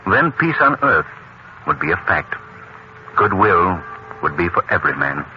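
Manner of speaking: measured, sincere little sermon with pauses; earnest reflection. Acted. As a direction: muse solemnly on goodwill. Closing reflection on charity and peace.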